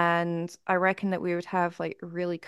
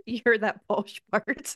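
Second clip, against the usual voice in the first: put-on Yorkshire accent; 2 semitones higher, much slower than usual. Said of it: "in a really thick Yorkshire accent".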